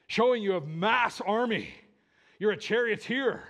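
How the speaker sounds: rousing proclamation. Acted. Preacher as onlooker preferring a victor's entry, loudly rousing. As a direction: proclaim it grandly, punching the titles. Extols a conquering king's entry.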